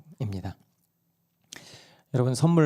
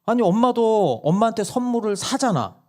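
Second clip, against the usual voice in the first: put-on child arguing; 10 semitones higher, 4 dB louder than usual. Child argues with mom.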